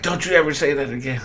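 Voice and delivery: dad telling off his son who swore; stern dad scolding. Retold or imitated. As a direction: snap it at a kid who cursed. Angry dad scolding child.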